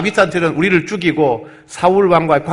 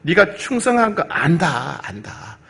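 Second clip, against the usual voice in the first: persuading; 3 semitones higher, slower than usual. Acted. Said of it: "다윗을 설득합니다".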